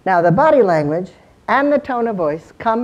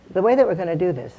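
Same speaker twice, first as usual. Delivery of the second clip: inviting; faster than usual. Shown as a demonstration. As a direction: offer it as an invitation to join in. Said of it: "I'm inviting you".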